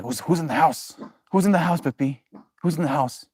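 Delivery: mild voicing of the dog who heard someone at home; dog's voice. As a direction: give the barking dog a lightly voiced line. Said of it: "She's barking at my mom".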